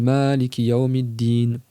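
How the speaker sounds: slow, careful "Maliki yawmiddin"; reciting with sod. Shown as a demonstration. Teacher slowly reciting the sod variant to students. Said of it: "si tu récites avec le sod".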